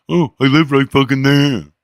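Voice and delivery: mock frustrated reply to the neighbor. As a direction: snap back, annoyed at being stopped. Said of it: "frustration in my voice".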